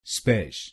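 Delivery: स्पेश said on its own as a single crisp syllable; syllable demo. Shown as a demonstration. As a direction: model स्पेश clearly for the learner. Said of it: "को बोलिए स्पेश". (अकेला शब्दांश स्पेश साफ़ बोलें)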